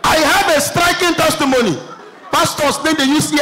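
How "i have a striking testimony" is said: slightly raised, mimicked church call; mock testimony shout. Church member announcing a testimony to the pastor, mild mock shout. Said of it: "Person just shout".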